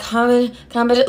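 tentative, broken-off syllables; sounding it out. Retold or imitated. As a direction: imitate working out a spelling bit by bit. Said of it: "I'm sounding it out".

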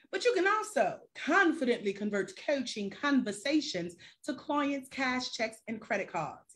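light, put-on British-Scottish accent; playful Scottish-British accent. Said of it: "Y'all like the accent?".

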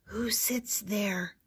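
slow breathy whisper. Acted. Julie asking David about the giant's seat, whispered. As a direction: hush it so the giant can't hear. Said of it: "whispered Julie".

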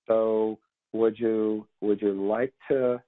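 slow, hesitant asking; hesitant agent. Retold or imitated. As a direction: drag it out unsure. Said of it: "agents will say something like".

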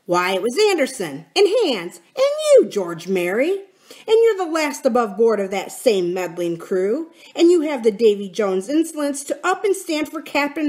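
heated pirate tirade with sudden high bursts; vehement. Acted. Silver answers the mutineers' charges, vehement. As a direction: throw the blame back with force. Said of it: "talking with a vehemence that shook the house".

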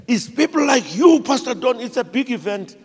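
high-pitched mock-crying accusation; imitating tearful complaint. A crying man accuses the pastor over his ancestors, mock-tearful complaint. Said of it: "and he's crying".

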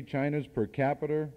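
New England accent, "capita" ending in an r sound like "capiter". Real, not acted. Speaker owning up to his New England accent, saying "capita" as "capiter". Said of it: "that's my New England accent".

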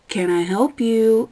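impatient server prodding dawdlers; sarcastic. Retold or imitated. Cashier to chatting customers, slow pointed sarcasm.

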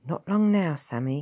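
put-on lifted, encouraging call to a child. A narrator's reading. Man urging tired Sammy on, encouraging. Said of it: "he said encouragingly".

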